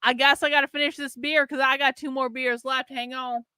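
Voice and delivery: lightly put-on tipsy Southern accent. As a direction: grumble playfully with a Southern twang. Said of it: "drunk and talking in a Southern".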